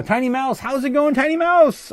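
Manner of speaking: high, rising sing-song hello to a tiny mouse; squeaky mouse greeting. Acted. Streamer greeting chatter Tiny Mouse, high sing-song voice. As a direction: coo the name up high like greeting a little pet.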